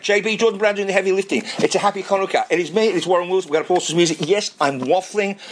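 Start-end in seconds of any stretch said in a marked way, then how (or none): 2.5-5.4 lost voice, hoarse and strained; talking with almost no voice left. Real, not acted. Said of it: "speak when I have no voice".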